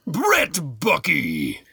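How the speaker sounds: drawn-out hammed-up name announcement; mock announcer. Co-host echoing a listener's name in a shout-out, mock announcer.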